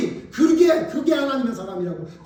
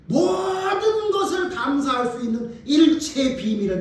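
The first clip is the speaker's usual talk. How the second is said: slow, emphatic shouted verse; preaching shout; 2 semitones higher, slower than usual. Real, not acted. Preacher to congregation, slow emphatic shout. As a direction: drive home the key phrase.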